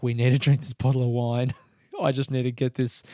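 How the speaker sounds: loud quote through laughter; laughing. Retold or imitated. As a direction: crack up mid-quote. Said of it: "he's like".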